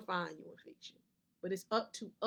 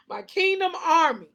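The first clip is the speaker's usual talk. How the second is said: tearful; 7 semitones higher, 12 dB louder than usual. Real, not acted. Overcome with emotion about her army.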